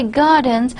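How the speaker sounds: "gardens" with the stress on garden, none on the final s. Shown as a demonstration. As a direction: stress "gardens" on the noun, leaving the plural ending light. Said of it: "I'm stressing the word garden, not stressing".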